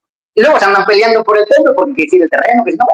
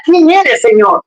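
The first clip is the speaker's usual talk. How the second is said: mock shout; 4 semitones higher, slower than usual. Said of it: "Y grita".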